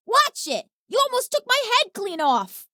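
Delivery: high, alarmed yelp; startled. Acted. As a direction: jump back from a near miss. Catcher nearly hit by fireball.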